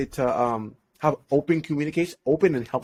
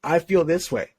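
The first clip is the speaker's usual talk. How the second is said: calm, peaceful. Acted. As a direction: act out a composed, honest confession. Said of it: "with peace, tranquility, calmness".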